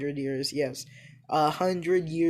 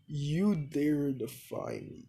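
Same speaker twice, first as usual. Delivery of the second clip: whispered, slow, deep god voice; a breathy menacing whisper; 4 dB quieter, slower than usual. Acted. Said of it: "one of my deepest voices".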